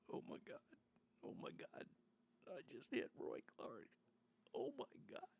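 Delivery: a mock horrified whisper that breaks up high at the end; panicked breathy gasps. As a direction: imitate a shocked man gasping in a panicked half-whisper. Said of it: "And the guy was crying".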